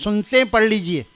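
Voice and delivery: says سنتے ہیں as if "they listen"; mock announcement with سنتے ہیں, not سنتیں; imitating the imam's slip; wrong pronunciation. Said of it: "تو آپ اعلان کرتے ہیں".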